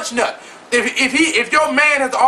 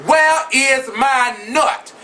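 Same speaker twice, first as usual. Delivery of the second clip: slow, shouted demands; mock furious girlfriend yelling; demanding shout; slower than usual. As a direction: confront him, drawing out each word. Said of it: "Ask him".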